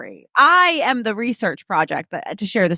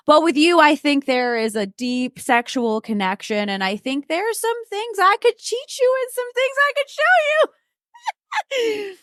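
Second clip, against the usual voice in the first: mock seductive voice; 8 semitones higher, slower than usual. Quoting his seductive line.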